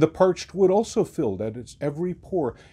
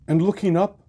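looking up lifted high and louder; rising up; 7 semitones higher, 4 dB louder than usual. A narrator's reading. Narrator looking aloft, voice lifted high. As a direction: let And looking up climb high and ring out.

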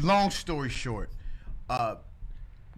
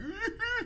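high-pitched mock sobbing wail; thin, high crying noise; imitated crying; 4 dB quieter than usual. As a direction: imitate weeping in the back seat. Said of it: "in tears".

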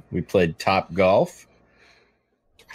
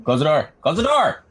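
firm raised order; 7 semitones higher, 3 dB louder than usual. Real, not acted. Dad telling kid to leave.

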